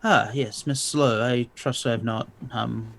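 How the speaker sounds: a lightly put-on formal vampire aristocrat; polite and courtly, barely changed from own voice; Ventrue voice. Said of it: "my best Ventrue voice".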